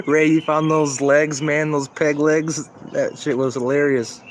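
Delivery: laughing, loud and slow; delighted call-out, laughing; excited. Real, not acted.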